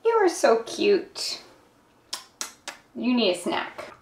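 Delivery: soft, high pet talk. Real, not acted. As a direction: coo to a pet. Talking to pet.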